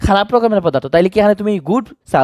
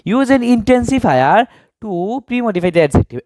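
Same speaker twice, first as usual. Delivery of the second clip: very slow, each word laid out; slow reading aloud; 4 semitones higher, much slower than usual. Shown as a demonstration. Teacher reading the task instruction slowly to students. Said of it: "এখানে কি use করতে বলছে".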